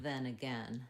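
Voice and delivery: "then again" with the same short eh in both; "then again", again said like uh-gen; matching eh vowels. Shown as a demonstration. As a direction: rhyme "then" with the end of "again". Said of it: "same vowel in then".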